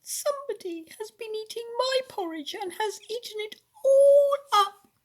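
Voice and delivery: very high, quick little cry, loud at the end; squeaky baby bear. A narrator's reading. Baby Bear cries over his eaten porridge, squeaky. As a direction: squeal it like a tiny bear, building. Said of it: "in a squeaky little voice".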